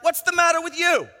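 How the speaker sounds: high, loud indignant yell; shouting match. Acted. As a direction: shout it as a challenge. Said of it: "a shouting match begins".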